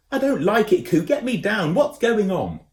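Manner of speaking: high, pleading and scared; frightened boy. A narrator's reading. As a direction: beg to be let down.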